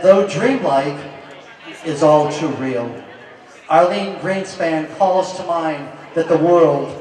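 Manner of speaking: slow, measured gallery description; formal art presentation. Acted. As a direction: present the painting like a catalogue read.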